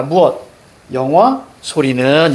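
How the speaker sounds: 무엇, 영화 and 소리는 as separate chunks; chunked reading demo. Shown as a demonstration. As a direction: pause after 영화, then stretch the end of 소리는. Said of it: "이렇게 읽어줘야죠".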